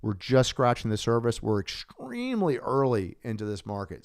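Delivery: real, lively excitement in the voice; really excited. Real, not acted. Host telling listeners it is extremely early, really excited. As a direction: let your genuine excitement carry through. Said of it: "as you can tell in my voice, I'm really excited".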